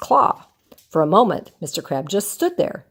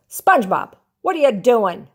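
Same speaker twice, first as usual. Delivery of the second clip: yelled; 3 semitones higher than usual. Acted. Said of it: "he yelled".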